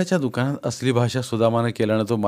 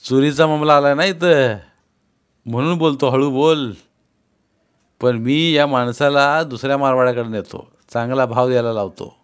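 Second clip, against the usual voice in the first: heated trader; 3 semitones higher, 4 dB louder than usual. Acted. Trader argues with Sudama.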